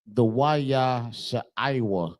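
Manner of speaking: "Waya Sha'aiwa" read out slowly, each syllable spaced; teacher reading "Waya Sha'aiwa" off the screen slowly; slow Hebrew reading. Shown as a demonstration. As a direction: sound out "Waya Sha'aiwa" carefully. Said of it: "like, for example".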